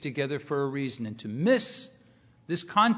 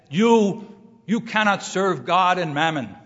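put-on German accent; 2 semitones higher, 6 dB louder than usual. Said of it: "she said with her thick German accent".

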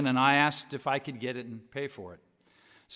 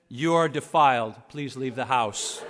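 stern wife; 4 semitones lower than usual. Retold or imitated. Wife's verdict voiced in story.

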